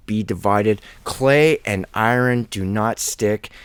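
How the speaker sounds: solemn King James scripture read aloud. Acted. Preacher reads the prophecy of clay and iron, solemn scripture reading.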